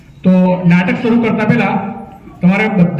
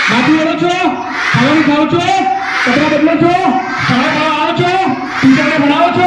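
rapid-fire quiz; 8 semitones higher than usual. Shown as a demonstration. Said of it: "જેટલા ઝડપી સવાલ પૂછું એટલા ઝડપી જવાબ આપવાના".

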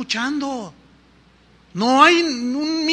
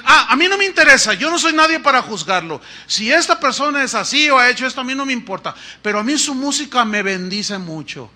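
mock indifferent churchgoer; 2 semitones higher, 3 dB louder than usual.

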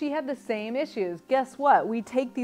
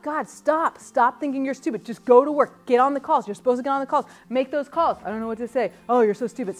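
self-scolding; 3 semitones higher, 6 dB louder than usual. Acted. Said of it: "I'd beat myself up".

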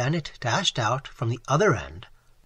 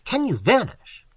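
high, loud, incredulous question; astonished cry; 9 semitones higher, 5 dB louder than usual. A narrator's reading. Narrator asking about her powers, crying out. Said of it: "I cried".

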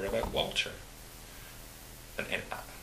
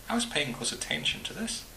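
put-on Highland Scottish accent; 8 semitones higher than usual. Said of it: "unmistakable burr of the Highlands".

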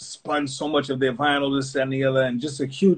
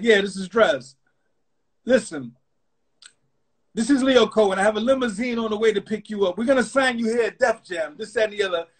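slick exec on phone; 6 semitones higher than usual. Retold or imitated. Leo on phone offering deal.

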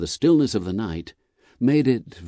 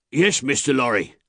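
lightly voiced rider, pitched up; rider calling back; 5 semitones higher than usual. A narrator's reading. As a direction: answer across the distance. Rider answers from the mist.

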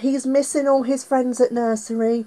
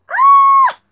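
high startled cry; 12 dB louder than usual. Acted. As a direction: jump at the pop-up. Crocodile pops out again.

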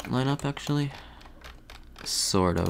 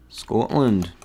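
attempted Scottish accent on "Scotland". Shown as a demonstration. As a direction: say "Scotland" like a Scot, rounded first vowel. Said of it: "How's my accent?".

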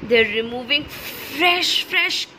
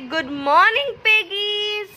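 cheery greeting; 5 semitones higher than usual. Shown as a demonstration. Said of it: "Can all of y'all say".

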